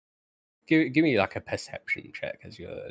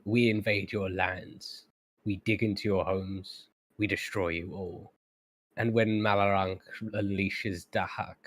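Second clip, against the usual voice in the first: lightly throaty captive monster voice; throaty creature. Acted. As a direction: speak from the throat, proclaiming the invasion. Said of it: "in a very throaty voice".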